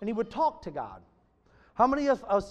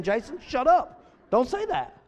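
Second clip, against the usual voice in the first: raised, high-pitched acted command; acted rebuke; 7 semitones higher, 8 dB louder, slower than usual. Preacher imagining God's voice telling him to shut up, acted rebuke. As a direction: call out a blunt order, louder. Voicing a blunt call from God.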